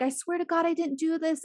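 high-pitched protest, no real sobs; imitated crying kid. Retelling the poor kid's denial, mock tearful pleading. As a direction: mimic a kid pleading innocence. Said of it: "the poor kid is crying".

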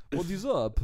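high, loud dude greeting; mock dude. Russian boy character greets him, mock cocky. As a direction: toss it off like a cocky guy.

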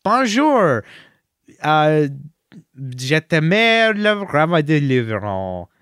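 showy imitation of bilingual French ride narration; Patton Oswalt. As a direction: announce it in put-on French, slow in the middle. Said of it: "Patton Oswalt comes out and says".

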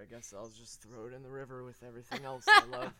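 lightly voiced mopey teen, low; Wirt impression. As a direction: mumble it like a gloomy teen. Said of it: "my Wirt impression".

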